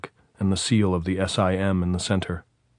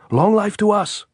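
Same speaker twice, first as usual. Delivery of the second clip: shouted cheer; 13 semitones higher, 6 dB louder than usual. A narrator's reading. Andres continues cheering.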